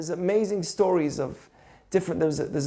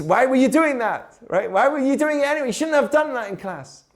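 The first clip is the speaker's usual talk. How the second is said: higher, fast mock scolding; mock scolding dad; 5 semitones higher than usual. A bad dad telling off his son, fast and scolding. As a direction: rattle it off like a cross father. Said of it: "What would a bad dad do?".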